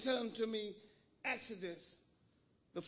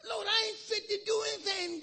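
pleading retold; 7 semitones higher than usual. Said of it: "I said".

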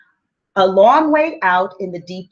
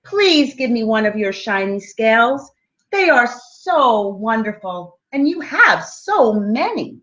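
little fish pleading; 3 semitones higher than usual. Acted. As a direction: beg sweetly like a tiny fish. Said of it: "he called".

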